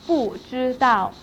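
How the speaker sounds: 不 falling before 知道; fourth tone on 不. Shown as a demonstration. Teacher showing 不 before a first tone, falling tone on 不. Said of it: "pronounced as in fourth tone".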